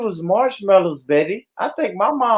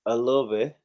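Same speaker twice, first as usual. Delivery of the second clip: sexy innocent voice; 7 semitones lower, 6 dB quieter than usual. Pretend. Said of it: "I was doing the sexy innocent voice".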